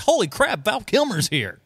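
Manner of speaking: high-pitched exclamation, imitating amazed onlookers; mock astonishment. Host voices shoppers spotting a star in the store, mock astonishment. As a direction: act out a startled crowd spotting a star. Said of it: "everybody'd be like".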